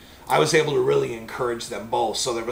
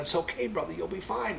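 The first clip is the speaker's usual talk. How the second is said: calming; 5 semitones higher, 8 dB quieter than usual. Retold or imitated. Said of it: "I'm trying to calm him down".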